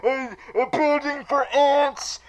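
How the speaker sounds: high, loud squawky Penguin; mock Penguin sneering at the model. Penguin mocking Theo's model, high and loud. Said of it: "Penguin is all like".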